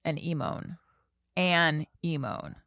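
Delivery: "An emone" as two separate words; split pronunciation. Shown as a demonstration. Echoing co-host's correct version, split pronunciation.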